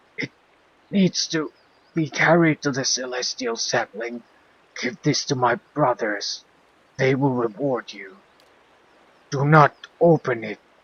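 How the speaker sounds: crying out with voice crackling. Voicing a dying monk begging that the case not be opened: crying out, voice crackling. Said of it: "he cries out, his voice crackling".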